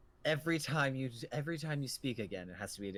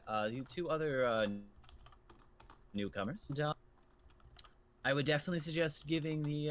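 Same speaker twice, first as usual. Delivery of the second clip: put-on old innkeeper; 3 semitones higher than usual. Innkeeper continues.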